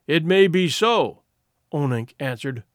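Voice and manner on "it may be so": unruffled. Acted.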